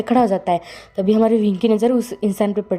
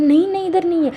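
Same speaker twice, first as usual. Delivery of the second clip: much higher insistent no; desperate denial; 9 semitones higher than usual. Acted. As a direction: insist in a high panic. Wing blocks the door.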